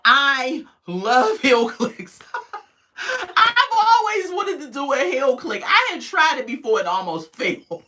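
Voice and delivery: high, loud gush breaking into laughter; giggly gushing. Real, not acted. Confessing a love of heel clicks, giggly gushing. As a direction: squeal it through real giggles.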